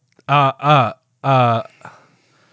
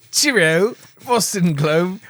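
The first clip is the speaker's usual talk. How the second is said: put-on failed Boston accent; 6 semitones higher, much slower than usual. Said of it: "I don't think I can do a Boston accent here".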